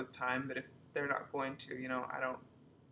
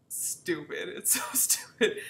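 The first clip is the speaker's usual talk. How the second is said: laughing, breathy whisper; 2 semitones higher, 6 dB louder, slower than usual. Real, not acted. Telling viewers her love story, whispered and laughing. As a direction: giggle it out under your breath.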